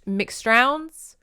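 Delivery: "McStrowns" lifted like a question; unsure pronunciation. Real, not acted. Narrator trying a Scottish clan name, unsure. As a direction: attempt "McStrowns" with a high, questioning rise. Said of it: "I'm saying that terribly".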